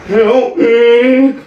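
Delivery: a touch of a desperate whisper-plea; mock plea for help. Host voicing the wife begging the camera, mock plea. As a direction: plead to the camera, hammed-up. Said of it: "look at the camera and be like".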